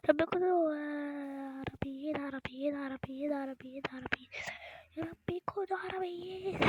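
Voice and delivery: hushed nervous begging; anxious whispered plea. Real, not acted. Nervous vlogger praying the strangers are Arab, anxious whisper. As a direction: pray under your breath that they're Arabs.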